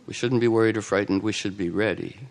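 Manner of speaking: low, soft and calm; a lightly voiced calm Snowden. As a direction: answer steadily with no alarm. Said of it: "likable and calm, very calm".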